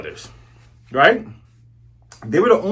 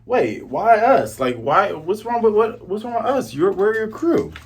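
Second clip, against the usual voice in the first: whiny crew protest; 6 semitones higher than usual. Retold or imitated. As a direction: play the betrayed crew, higher. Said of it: "the Black Cat Pirates are like".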